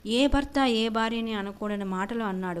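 ordinary delivery, nothing marked

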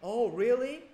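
loud, high, rising disbelief; acted surprise. Person B hearing about the party snub, acted surprise. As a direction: exclaim it as an incredulous question.

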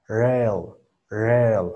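"rail" as "rel" with an English R; syllable "rel" with untapped R. Shown as a demonstration. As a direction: start "rail" on a rounded English "er" sound. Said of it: "lo pronuncié como R".

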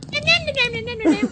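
high, quiet singsong cat-like noise; Nyan Cat. Acted. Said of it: "I'm gonna be Nyan Cat".

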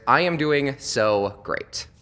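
slow, drawn-out fake chipper; mock chipper I am doing so great; forced cheer. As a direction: stretch it out with a forced bright front. Fake cheerful stock answer.

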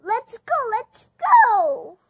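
loud, high hurried cheer; urgent shout. Acted. The friends rush across, loud and urgent. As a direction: drive them on fast.

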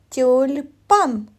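Тюльпан in two careful parts, тюль-пан. Shown as a demonstration. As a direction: hold the ль in Тюльпан. Teacher highlights soft L in word.

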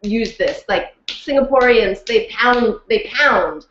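a hint of Singaporean accent, insistent; lightly voiced Singaporean coach, pounding "pound". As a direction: pound the words like the coach says. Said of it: "And she was like".

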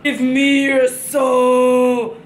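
drawn-out menacing demand; slow scary voice. Pretend. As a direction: stretch each word like a ghoul. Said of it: "do I not look scary".

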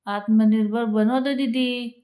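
sassy pigeon reply. Acted. Pigeon answers the girl.

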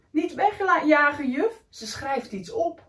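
put-on child pleading. Bob begs teacher.

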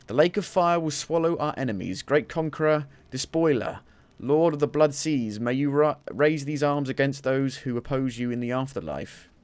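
invoke a war god; solemn priest. Pretend. Voices ancient prayer again.

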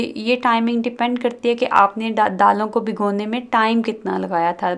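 ordinary talk

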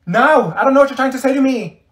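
loud, high frustrated outburst; shouting in total bafflement; exasperated yell. Acted. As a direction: yell at the incoherent friend. Exasperated with rambling friend.

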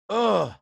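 acted "ugh" of defeat; exasperated groan. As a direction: groan it out, resigned. Acts out grudging acceptance.

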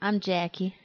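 drawn-out announcer catchphrase; slow intro catchphrase. Pretend. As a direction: stretch the catchphrase out slowly. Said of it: "re-doing show intro catchphrase".

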